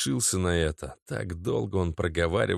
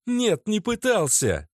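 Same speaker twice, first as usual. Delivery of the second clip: high, sharp, accusing; girlfriend's angry outburst; 13 semitones higher, 3 dB louder, slower than usual. A narrator's reading. Natasha furiously accuses her boyfriend Oleg. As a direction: lash out at him.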